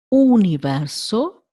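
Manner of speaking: universo with a pure oo, not you; universo, Italian U. Shown as a demonstration. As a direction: start universo with a rounded oo. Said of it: "this sound".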